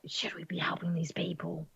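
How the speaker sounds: hushed whisper to a companion. Acted. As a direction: whisper it so others can't hear. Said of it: "she, like, whispers".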